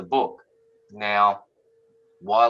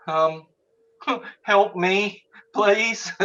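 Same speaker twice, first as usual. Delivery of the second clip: high, laughing mock plea for help; 11 semitones higher, much slower than usual. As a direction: beg through a laugh. Pleading jokingly to psychic.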